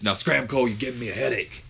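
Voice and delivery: mock-annoyed wrestler dismissal; Austin. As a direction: shoo the interviewer off in a put-on voice. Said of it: "He says".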